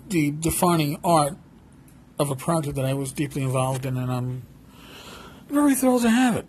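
choked up, fighting back tears; teary-eyed. Real, not acted. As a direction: voice near tears with emotion. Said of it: "if I sound teary-eyed".

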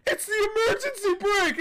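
very high, loud mock shouting; hammed-up high-pitched shout; imitated frantic yell. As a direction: yell it like a panicked bystander running over. Acting out boyfriend yelling as he runs.

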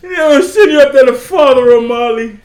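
mock Irish accent. Answering whether he is Irish, high mock Irish. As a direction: pitch it up into a fake Irish lilt. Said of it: "Ron, you Irish?".

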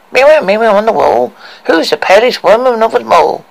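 high, loud commanding queen; evil queen. Acted. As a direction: declaim it like a vain queen. Queen addresses her mirror.

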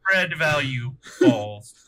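slow robot code. Retold or imitated. Robot's dying code line.

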